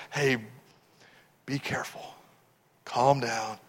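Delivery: hushed, near-whispered reassurance; calming. Acted. Jesus showing Jairus how to be calm, hushed. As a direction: settle someone down softly.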